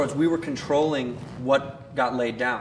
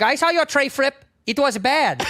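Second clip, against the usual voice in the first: high, scolding mock Asian accent; Asian Karen; 10 semitones higher than usual. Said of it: "She's like".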